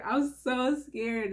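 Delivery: slow, settling repeat; slow nervous repeat. Real, not acted. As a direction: drag it out slowly, calming down.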